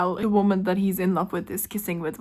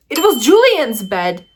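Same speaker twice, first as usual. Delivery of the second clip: thrilled squeal; 2 semitones higher, 7 dB louder than usual. Real, not acted. Reader discovering whose bed it was, loud delighted squeal.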